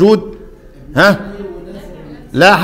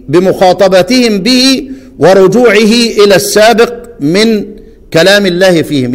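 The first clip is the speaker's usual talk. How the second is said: slow, measured reading of a classical text; formal text reading; slower than usual. Acted. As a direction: read every phrase deliberately. Teacher reads scholar's text. (قراءة متأنية لنص علمي)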